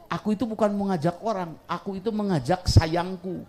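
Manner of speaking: ibu merayu dengan manis. Retold or imitated. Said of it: "ibu pinter menjawabnya seperti itu".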